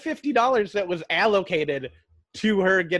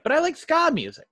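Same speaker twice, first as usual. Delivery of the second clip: mock girly voice; 9 semitones higher, 4 dB louder than usual. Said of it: "and then she's like".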